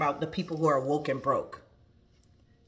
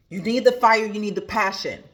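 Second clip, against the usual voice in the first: louder, emphatic repeat; 2 semitones higher, 5 dB louder than usual. Shown as a demonstration. Coach repeating the mantra to her viewers, louder. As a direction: push the fire line out harder.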